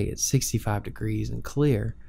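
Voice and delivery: level, even weather read; monotone radio voice. Shown as a demonstration. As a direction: keep it calm and monotone. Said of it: "talk in a very monotone style".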